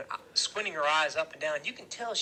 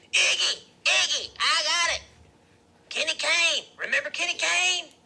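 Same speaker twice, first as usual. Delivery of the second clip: high, loud cries of sudden recognition; excited realization; 13 semitones higher, 9 dB louder than usual. A narrator's reading. Loretta jumps up, suddenly remembers.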